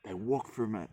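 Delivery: whispered, then a mock-indignant complaint; grumpy influencer whisper. Mocking grumpy influencers, muttering complaint. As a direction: play a petty influencer hissing about strangers. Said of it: "get grumpy like some influencers".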